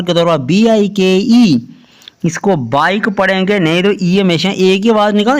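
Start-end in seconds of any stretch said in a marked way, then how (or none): 2.7-3.1 बाइक, ending right on the K; silent final E. Shown as a demonstration. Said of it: "बाइक पढ़ना है".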